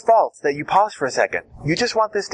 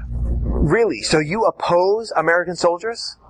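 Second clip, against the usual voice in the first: scary incredulous; slower than usual. Shown as a demonstration. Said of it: "repeat the question in the scariest way".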